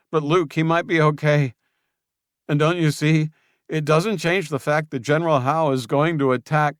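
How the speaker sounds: high, loud desperate confession; Julian confessing. Acted. Julian confessing to Luke and pleading, high and loud. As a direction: beg him to see reason.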